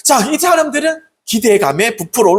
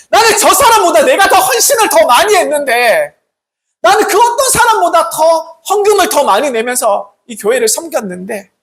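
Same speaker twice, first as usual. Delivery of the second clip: loud, high-pitched aggrieved boasting; mock indignant churchgoer, each claim pushed harder; resentful grumbling; 7 semitones higher, 4 dB louder than usual. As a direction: protest your merits with mounting resentment. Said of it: "그러면서 마음에 불평, 분만이 쌓여간다".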